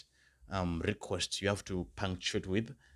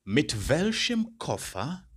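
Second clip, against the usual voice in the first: slow, raised question with rising end; slow model question; 7 semitones higher, 4 dB louder, slower than usual. Shown as a demonstration. Teacher modelling a question for learners, slow and raised. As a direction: ask it slowly, like a teacher. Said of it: "another possible question I could ask".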